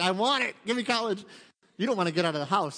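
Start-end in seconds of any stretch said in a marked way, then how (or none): 0.0-1.2 higher, louder playful want; mock eager. Laura raising her hand for college, mock eager. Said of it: "she's like".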